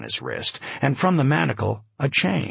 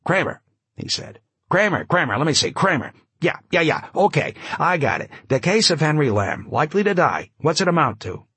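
raised, rapid newsman patter; breathless snap-brim talker; 5 semitones higher than usual. Acted. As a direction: fire it off like an old columnist. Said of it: "his breathless, snap-brim way of talking".

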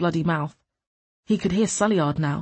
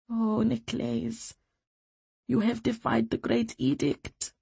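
dismayed; 4 semitones higher, 5 dB quieter, slower than usual. A narrator's reading. Dismayed woman speaking softly.

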